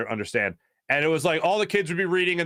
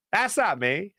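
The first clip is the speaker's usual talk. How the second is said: Mister Keener; 5 semitones higher, slower than usual. Retold or imitated. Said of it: "he goes".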